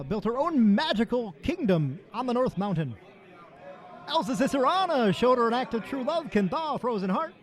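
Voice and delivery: put-on booming play-by-play announcer reading a kids' book; Kevin Harlan voice. Host asked to demo reads a Frozen book as a sportscaster. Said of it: "reading these books to them in Kevin Harlan's voice".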